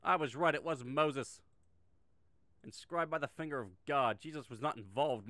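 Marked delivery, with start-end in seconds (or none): 0.0-4.2 gloating, a bit louder; triumphant told-you-so; smug. Real, not acted. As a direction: savor being right out loud. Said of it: "I'm just gonna take this moment to be smug as fuck".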